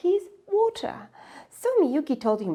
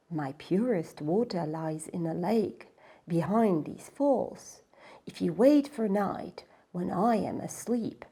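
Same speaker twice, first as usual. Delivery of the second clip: low and softer, partly whispered; hushed waterfall voice; 3 semitones lower, 4 dB quieter than usual. Acted. The waterfall telling Miyuki to wait, low and hushed. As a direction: speak like sleeping water.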